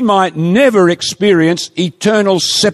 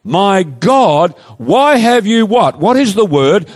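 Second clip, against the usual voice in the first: loud cry; 5 semitones higher than usual. Retold or imitated. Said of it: "with a loud voice".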